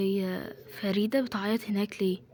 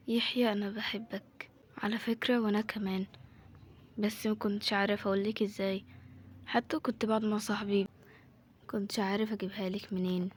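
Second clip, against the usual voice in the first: love confession; 5 dB quieter than usual. Acted. Two coworkers admit their love to each other, softly confessing. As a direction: confess it quietly, with hesitant pauses.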